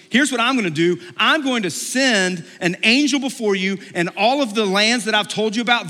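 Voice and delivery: high, energetic announcement; rousing promise. Retold or imitated. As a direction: hype the people up for what's coming. God announcing promises to Moses.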